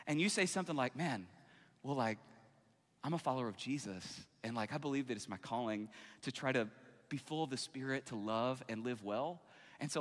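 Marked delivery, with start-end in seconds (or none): 1.0-9.4 gentle refusal. Acted. Believer declining a drink from friends, gentle. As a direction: gently decline without making it awkward. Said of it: "It's a really gentle way".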